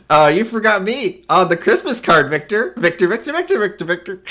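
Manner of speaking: calling Victor. Acted. Voicing forgotten character calling Victor.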